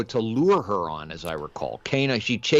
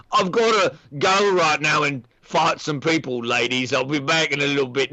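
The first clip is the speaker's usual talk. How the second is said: Kano. Acted. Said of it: "That's why he's like".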